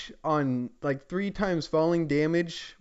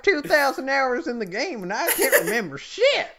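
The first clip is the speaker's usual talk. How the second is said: laughing through the confession; cracking up mid-sentence, higher and louder; giggling while admitting it; 10 semitones higher, 4 dB louder than usual. Real, not acted. Laughing at own forgetfulness.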